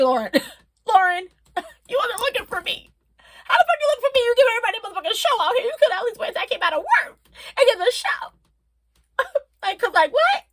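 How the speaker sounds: high, loud teasing through laughs; laughing banter. Retold or imitated. Teasing a singer about the show, laughing loudly. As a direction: playfully scold her through laughter.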